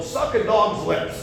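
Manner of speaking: high, drawn-out mock scream; retold scream. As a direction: scream it down the phone, re-enacted. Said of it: "I screamed to the phone".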